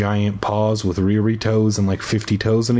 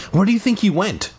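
mild shout; 8 semitones higher, faster than usual. A narrator's reading. Kid calling to his brother while biking, mild high shout. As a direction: pitch it up as if calling over. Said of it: "I shouted".

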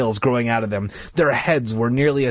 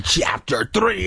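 shouted; 8 semitones higher, slower than usual. Pretend. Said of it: "reader shouts chapter heading".

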